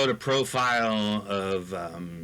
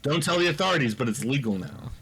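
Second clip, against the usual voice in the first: smoking a hookah; 3 semitones higher, faster than usual. Real, not acted. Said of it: "if I just slightly smoked from a hookah while we talked".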